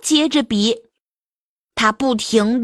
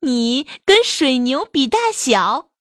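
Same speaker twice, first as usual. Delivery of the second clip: giggly, teasing squeal; butterfly laughing; 2 semitones higher than usual. Acted. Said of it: "乐得直叫".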